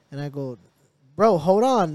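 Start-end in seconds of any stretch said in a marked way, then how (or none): 1.2-1.9 louder, retold call to stop; urgent warning. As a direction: imitate yourself urgently halting your brother. Retold warning to brother while crossing.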